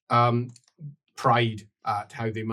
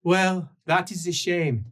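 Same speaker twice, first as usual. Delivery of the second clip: higher, slow call back; drawn-out, raised-pitch reply; 6 semitones higher than usual. Acted. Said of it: "calls back".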